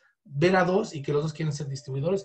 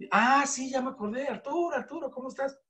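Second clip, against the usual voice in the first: recognizing friend; 7 semitones higher than usual. Retold or imitated. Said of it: "(contact recognizes Arturo)".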